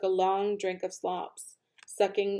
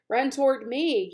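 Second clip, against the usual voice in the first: gander yelling; 5 semitones higher, 4 dB louder than usual. Acted. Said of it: "yelled the gander".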